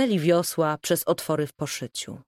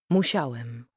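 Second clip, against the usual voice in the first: composed; 6 semitones lower than usual. A narrator's reading. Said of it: "Erik zachowywał spokój".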